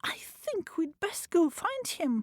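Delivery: hushed whisper. Acted. The kitten whispering to the others, hushed. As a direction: whisper the plan.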